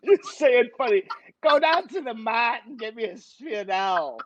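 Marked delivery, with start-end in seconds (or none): 1.4-4.2 comic put-on accent, savouring Sviadel. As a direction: repeat it in a funny accent. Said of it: "I do a lot of accents".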